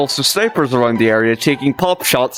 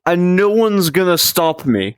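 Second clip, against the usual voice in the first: high, slow, gleeful scheming; scheming leader voice; 5 semitones higher than usual. Acted. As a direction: slowly savor the sudden power. Yeltsin voiced realizing his power.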